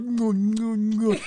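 imitating crying woman. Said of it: "you can hear she's crying".

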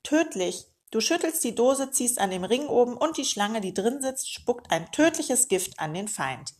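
dramatic warning. Acted. Uncle warns dramatically of danger.

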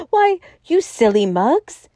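high-pitched mocking delight; amused crowing. A narrator's reading. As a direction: crow it at your silly friends. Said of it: "breaking into a high crow of laughter".

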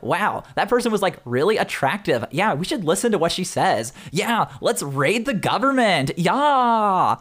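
lightly voiced Valley girl. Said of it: "Valley girls".

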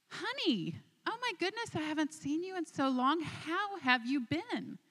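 high, gushing greeting; a wife thrilled to see her husband again, gushing high; delighted gushing wife. Acted. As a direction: swoop up in pitch as if overjoyed to see him. Wife greets long-lost husband at gates.

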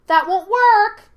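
high, loud monkey shriek; shouting. A narrator's reading. Monkey spirit calls after departing Yue, shouting. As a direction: yell it after them. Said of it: "shouted the monkey".

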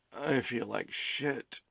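soft, slow, groggy muttering; muttering to himself. Acted. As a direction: mumble it to yourself, exhausted. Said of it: "he talked to himself".

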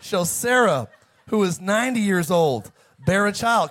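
hammed-up biblical incredulity; incredulous Abraham. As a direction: hit each phrase in mock astonishment. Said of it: "He said".

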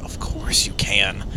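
low, soft, slow agreement; understated assent. Retold or imitated. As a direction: say yes gently, drawing it out. Retold answer to mother, first take.

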